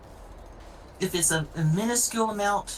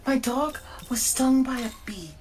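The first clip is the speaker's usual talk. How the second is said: mock panicked owner; 4 semitones higher than usual. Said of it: "people will be like".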